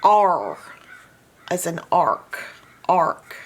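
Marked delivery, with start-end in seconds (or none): 0.0-0.6 R said as a drawn-out, louder "ar"; bossy-R sound. Shown as a demonstration. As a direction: sound out R as "arr", as in car. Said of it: "making the A say".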